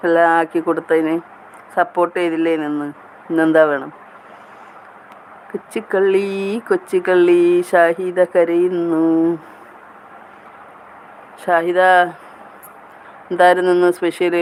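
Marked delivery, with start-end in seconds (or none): 5.5-9.0 slow, drawn-out teasing chant; playful teasing. Pretend. Host calling crying Shahida a little rascal, playfully teasing. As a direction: stretch the endings like a playful taunt.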